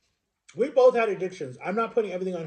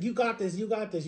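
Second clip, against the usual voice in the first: higher-pitched encouragement; happy for a friend; 4 semitones higher, 3 dB quieter than usual. Retold or imitated. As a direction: cheer a friend on, retold. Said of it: "He was, like, so happy for me".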